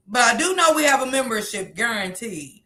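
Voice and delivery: usual speaking voice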